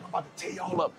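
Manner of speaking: hushed, unvoiced trash talk; under his breath on court; muttered threat. He threatens the opponents under his breath on court. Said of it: "I'm saying it on the court".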